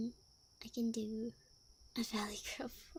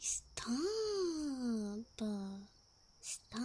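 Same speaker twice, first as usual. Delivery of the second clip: mock protest. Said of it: "to go like".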